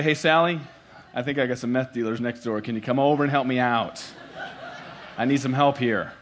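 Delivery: laughing through a silly request; mock call laughing. Chuckling mock plea. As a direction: caller asking small group leader about meth dealers, laughing.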